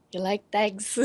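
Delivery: lightly imitated Pikey brogue; film-style Pikey accent at normal volume. Player repeating the film quote for laughs, light Pikey accent. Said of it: "Yeah, pikeys".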